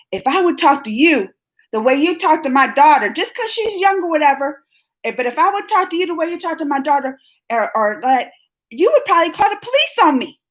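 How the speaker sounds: mother reliving her anger at the teacher; retold angry telling-off. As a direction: replay the fury at the meeting. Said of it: "and then I got mad".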